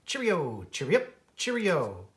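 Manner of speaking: cheery little birdsong voice; cheerful robin song. Acted. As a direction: chirp it out like a happy robin. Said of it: "with a cheerful wish".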